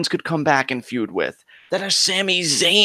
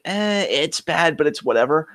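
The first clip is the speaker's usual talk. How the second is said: apathetic; 2 semitones higher than usual. Retold or imitated. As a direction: shrug it off, as if past caring. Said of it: "maybe this is where my apathy for Raw".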